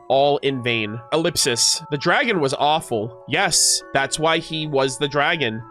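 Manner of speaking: measured storybook read-aloud; story narration. A narrator's reading. Streamer reading a hero-and-dragon tale to chat, story narration. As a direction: narrate it like an old fable.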